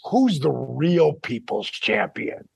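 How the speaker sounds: slow, ominous arena voice; booming from the dark; dramatic voiceover. Pretend. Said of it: "you hear my voice".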